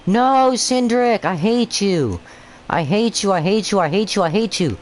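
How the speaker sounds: high, whiny frustrated rant; frustrated yelling. Real, not acted. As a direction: vent at the rival driver. Frustrated at rival driver Cindric.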